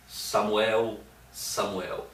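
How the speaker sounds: measured double call, the second name dropping; lightly voiced summons from God; God's calling voice. The voice calls Samuel a fourth time, calling out. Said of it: "chama pela quarta vez".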